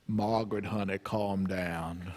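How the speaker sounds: slow, low, soft soothing of a quiet man; calm her down gently; father's soft drawl. Retold or imitated. Quiet husband soothing his wife, slow and soft. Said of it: "That's the way he talks".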